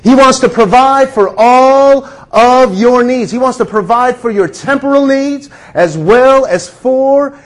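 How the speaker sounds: preaching. Acted. Pastor urging the congregation about God's good gifts, fervent preaching. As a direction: build it like a Sunday sermon.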